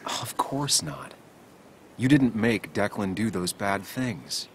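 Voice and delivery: slow, measured reassurance; reassuring. Acted. Comforting someone who fears it is their fault, slow and reassuring. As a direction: reassure them slowly and firmly.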